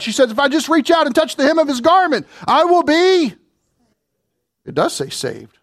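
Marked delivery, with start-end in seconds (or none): 0.3-3.4 woman seeking healing. Acted. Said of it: "the woman who had the issue of blood".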